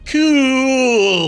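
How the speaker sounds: high, flat deadpan cool; deadpan one-word Stewie. Retold or imitated. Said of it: "And then Stewie just goes".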